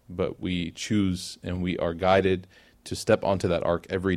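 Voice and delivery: steady, even prayer cadence; a preacher's closing prayer to the congregation; closing dua. Acted. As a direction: recite each request as a plea to God. Closing supplication.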